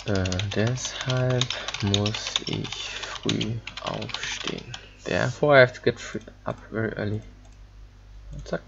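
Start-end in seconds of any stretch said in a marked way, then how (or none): 0.5-4.7 slow careful reading. Shown as a demonstration. Reading German example sentence slowly.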